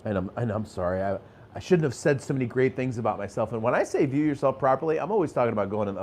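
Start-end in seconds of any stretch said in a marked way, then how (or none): 0.0-3.5 self-deprecating. Retold or imitated. Imitating people who put themselves down, mild sheepish tone. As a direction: shrink yourself down, apologizing. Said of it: "they actually bring themselves down".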